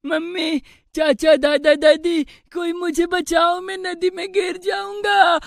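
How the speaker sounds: put-on frightened child calling out; panicked, high pleading call; scared cry for help. Child hanging from bridge, calling for help.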